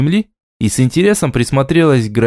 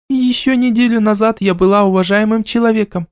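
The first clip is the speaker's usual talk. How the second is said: bitter; 9 semitones higher than usual. A narrator's reading. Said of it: "с горечью произнесла Го".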